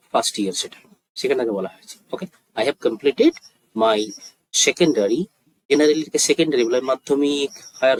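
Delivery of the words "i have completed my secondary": measured, pausing after each phrase; slow demonstration. Shown as a demonstration. Teacher repeats the schooling line for learners, slowly. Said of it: "আস্তে আস্তে বলছি".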